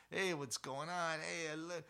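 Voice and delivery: friendly smiling. Retold or imitated. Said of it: "talking to this kid and smiling".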